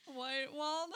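put-on hammy Southern accent, barely holding laughter. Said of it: "I cannot do a southern accent".

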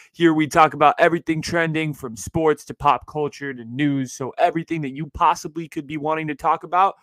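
newscaster read. Acted. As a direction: announce it like TV news. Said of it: "that's my little newscaster voice".

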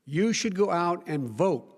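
slow, loud plea straight to the camera; emphatic appeal. Real, not acted. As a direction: press every word of the call to vote. Urging viewers to vote.

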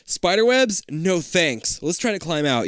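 quick suggestion. Acted. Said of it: "you suggest quickly".

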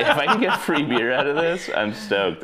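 high, laughing excitement. Real, not acted. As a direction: laugh through the words. Laughing about free beer.

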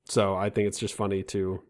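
ordinary talk

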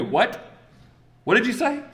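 high, startled mock outrage; indignant what did you say; shocked crowd. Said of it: "They go".

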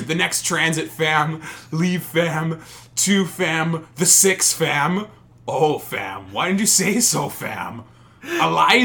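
loud, high mock roadman; Toronto roadman slang.

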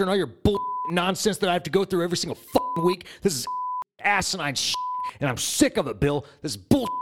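exasperated, ranting outburst; fed-up rant. Acted. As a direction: let the fed-up frustration pour out. Fed-up quarrel with Bill.

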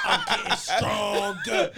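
slow drawn-out mock toddler threat; imitating toddler. Father quoting toddler's villain line, slow and drawn out. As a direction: stretch it out like a tiny villain. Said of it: "She was like".

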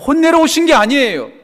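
loud, high emphatic denial; forceful preaching. Real, not acted. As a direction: insist at full pulpit force. (힘껏 외치는 설교)

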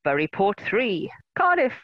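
put-on old radio scores voice; football results reader. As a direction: read it like the classified results. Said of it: "when we were young and the football scores used to come through".

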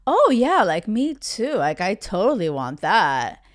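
lightly voiced smooth-talking player; mock player playing along. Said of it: "this voice for these players".

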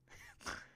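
short unvoiced snort of a laugh; scornful snort. A narrator's reading. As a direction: snort with contempt. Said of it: "Declan snorted".

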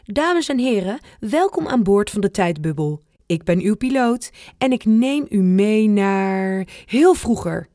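lightly voiced posh pilot announcement. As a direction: play the grand airline pilot, lightly. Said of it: "Met deftige stem zegt opa".

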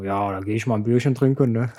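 leicht gespielter Biertrinker, tiefer und leiser; beer drinker voice. Retold or imitated. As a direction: einen gemütlichen Biertrinker nachmachen. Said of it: "Ich mach dann irgendwelche Leute nach". (Stimme eines Biertrinkers)

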